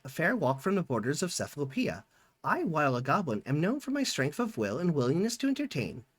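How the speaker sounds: lightly voiced goblin, formal and courteous; a hint of a well-spoken goblin addressing the ruler; polite goblin. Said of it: "begins to speak with perfect pronunciation and fluency".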